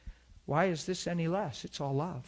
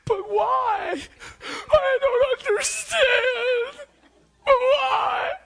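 mock sobbing in a very high, loud voice; crying high pitch; 12 dB louder, much slower than usual. Preacher imitating the tearful waitress, a high loud sobbing wail. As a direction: wail it like an overwhelmed young waitress.

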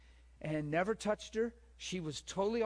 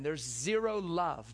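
zero drawn out slowly and leaned on; stress on zero; slower than usual. Acted. Preacher telling the room there's zero love, slow and pointed. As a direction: stretch the word zero to make it land.

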